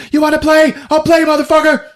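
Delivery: high-pitched, worked-up challenge; hammed-up furious taunt; acted threat. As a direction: yell the dare as if waving a knife. Retold knife threat.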